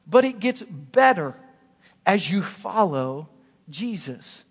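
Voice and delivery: loud, high, drawn-out punch line; slow it right down and hammer it home; the peak of the sermon, stretched out; slow preaching climax. Acted.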